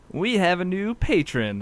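high, slow grand announcement; odd high announcement. Real, not acted. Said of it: "I don't know why I said it like that".

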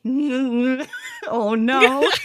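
high, laughing oh no; giggling mock horror; laughing mock dismay. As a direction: laugh through a horrified oh no. Her reaction, laughing.

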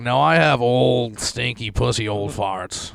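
put-on slow, strange old-lady drawl. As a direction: voice a cranky old woman. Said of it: "Barbara's like".

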